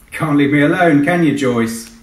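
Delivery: a fond groan at the dispatcher; mock exasperation. Pilot teasing dispatcher Joyce over the radio, mock exasperated.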